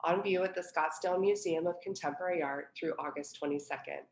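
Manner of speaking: measured, clearly read welcome speech; curator's prepared introduction to a reading; formal introduction. Real, not acted. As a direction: read the event introduction aloud, presenting each name and title. Reads a prepared event introduction.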